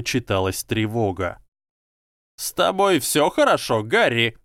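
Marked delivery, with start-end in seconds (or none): 2.4-4.4 high, thin squeak of a tiny professor; squeaky voice. A narrator's reading. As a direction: squeak it out, worried. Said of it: "пропищал декан Когтеврана".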